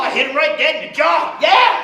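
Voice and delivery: high loud yell of victory; triumphant shout. Acted. Hyping Dorothy's knockout, a high triumphant yell. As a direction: crow it out triumphantly. Dorothy gangster rant climax.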